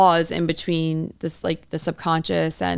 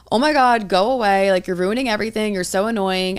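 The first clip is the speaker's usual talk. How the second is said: mock irritated outburst; 2 semitones higher, 3 dB louder than usual. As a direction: snap at the pesky inner voice, half-playful. Imagined fed-up outburst at inner part.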